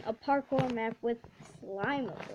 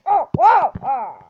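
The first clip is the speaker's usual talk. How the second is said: high, very loud surprised shout; startled whoa; 4 semitones higher, 15 dB louder, slower than usual. Real, not acted. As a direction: yell as the game throws you. Sudden bounce in the game.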